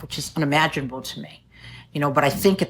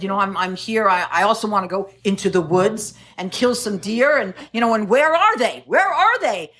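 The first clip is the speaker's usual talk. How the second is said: eager hunter; 3 semitones higher than usual. Retold or imitated. Hunter asking Chuck where the deer are, eager. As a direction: lightly voice the eager newcomer. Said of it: "this guy came over and he said".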